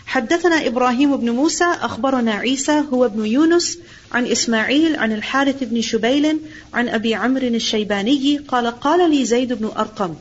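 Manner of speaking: quick, running Arabic chain of narrators; brisk traditional hadith chain reading; rapid isnad recitation. Acted. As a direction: rattle off the isnad fast like a practiced teacher.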